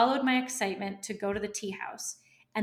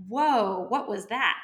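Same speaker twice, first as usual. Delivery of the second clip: loud, startled exclamation, retold; startled whoa; 7 dB louder, slower than usual. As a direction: blurt it out, caught off guard by the door. Startled at the repelling door.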